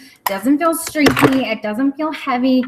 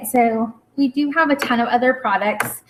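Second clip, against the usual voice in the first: talking while choking on spit; throat catching on spit; 2 semitones higher than usual. Real, not acted. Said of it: "sorry, I'm choking on my spit".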